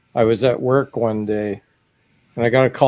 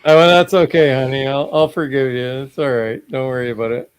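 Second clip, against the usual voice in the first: soothing parent. Retold or imitated. Parent comforting crying daughter, retold.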